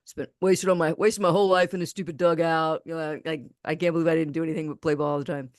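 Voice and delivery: imitating a dejected, frustrated son; mock-frustrated venting, only lightly acted; disappointed son. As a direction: lament it like a let-down ballplayer. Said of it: "he was so disappointed".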